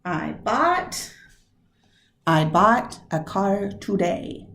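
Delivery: "bought" and "car" stressed in a lilting beat; iambic stress. Shown as a demonstration. Teacher testing the iambic rhythm of the line. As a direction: tap out the iambs, leaning on "bought". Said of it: "that same iambic pattern".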